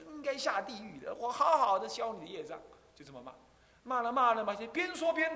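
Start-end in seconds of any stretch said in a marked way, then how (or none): 0.1-2.6 scolding. Retold or imitated. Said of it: "边打还边骂".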